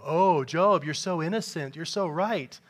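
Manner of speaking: mock praise, leaning on so; sarcastic. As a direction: scoff at his innocence. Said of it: "So he just speaks sarcastically to him".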